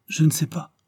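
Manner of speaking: a hint of a small girl, eager; lightly voiced little girl. A narrator's reading. Little Claire answering her aunt, lightly childlike. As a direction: play the child, innocent and sure.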